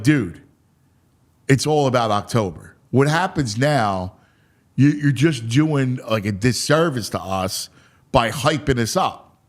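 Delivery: low, measured reproof; chastising. Retold or imitated. Ballplayer objecting to being hyped up, chastising. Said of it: "He was kinda chastising me".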